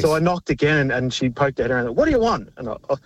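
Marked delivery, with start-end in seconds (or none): 2.0-2.5 high-pitched imitation of a bothered woman; mock irritated neighbour. Firefighter imitates woman woken by his knocking, high mock irritation. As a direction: imitate a put-out householder, voice jumping up. Retold startled neighbour answers door.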